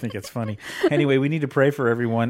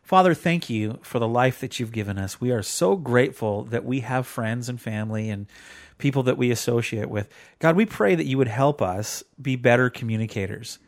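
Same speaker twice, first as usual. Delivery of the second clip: steady, heartfelt prayer voice; earnest prayer. Real, not acted. Host praying for listeners at show's end, earnest prayer. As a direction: pray aloud for everyone, sincerely.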